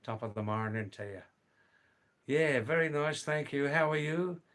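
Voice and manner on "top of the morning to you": a light, quick Irish lilt on a stock greeting; Irish accent. Acted. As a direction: toss it off as a playful stage Irishman, Irish accent. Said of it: "Do I sound a little bit Irish there?".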